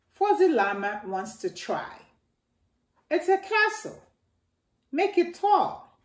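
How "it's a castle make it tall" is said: put-on excited kids. Children building excitedly.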